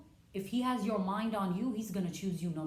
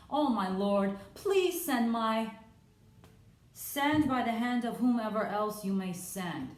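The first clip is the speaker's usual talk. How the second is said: pleading Moses; 4 semitones higher, 5 dB louder than usual. Acted. Moses begging the Lord to send someone else, loud plea. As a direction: beg to be let off the hook.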